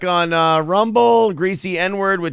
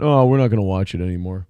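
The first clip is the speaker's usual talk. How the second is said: mocking quote; 9 semitones lower, faster than usual. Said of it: "So he just went".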